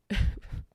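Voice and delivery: a short unvoiced giggle; quiet embarrassed chuckle; soft breathy laugh. Real, not acted. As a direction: laugh at how silly it sounds. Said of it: "I'm laughing because it sounds silly".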